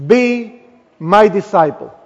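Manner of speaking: slow, weighty scripture reading with pauses; slow solemn reading. Acted. Preacher slowly reads Jesus' warning to the church, solemn. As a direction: read each phrase slowly, letting it land.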